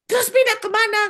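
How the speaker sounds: cornered spirit asks where to go; spirit pleading. Retold or imitated. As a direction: whine the question back like a spirit. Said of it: "Dia bilang gitu".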